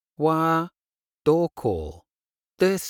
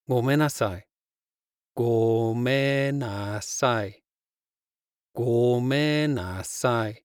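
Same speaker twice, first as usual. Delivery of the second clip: heartfelt; slower than usual. Shown as a demonstration. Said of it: "a genuine, heartfelt".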